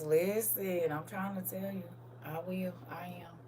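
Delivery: lightly voiced booming uncle. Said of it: "Clock out in my uncle voice".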